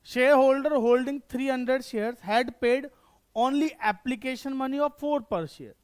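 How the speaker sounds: very slow, word-by-word reading; slow dictation. Shown as a demonstration. Teacher dictating the question to the class, very slowly. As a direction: read it out so students can write it down.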